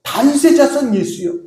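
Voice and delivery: high-pitched plea without real shouting. Retold or imitated. Preacher re-enacts undeterred Bartimaeus calling to Jesus, imitated cry. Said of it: "더 큰 소리로".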